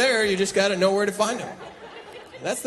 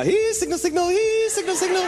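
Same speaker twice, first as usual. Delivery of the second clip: much higher, grunting caveman chant; high mock caveman; 11 semitones higher than usual. Comic miming a caveman hunting signal, much higher. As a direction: play a dumb caveman searching.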